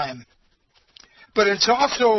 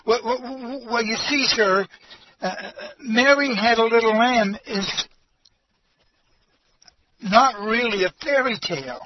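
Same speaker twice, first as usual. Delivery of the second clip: lightly voiced nervous teacher, a bit higher; 3 semitones higher than usual. Teacher explains the rhyme to the pastor, a little nervous. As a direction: stammer it out, mildly nervous. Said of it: "very nervous".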